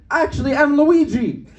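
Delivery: high, slow yelled comeback; mock scream back. Comedian yells back at heckling lady, mock scream. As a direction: draw out a high, triumphant retort. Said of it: "I screamed back".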